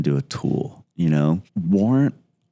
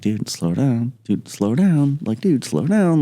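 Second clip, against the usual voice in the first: each warning higher and more urgent than the last; rising urgent shouts; 8 semitones higher, slower than usual. Retold or imitated. Teammates shouting at Roger on the rappel line, alarmed calls.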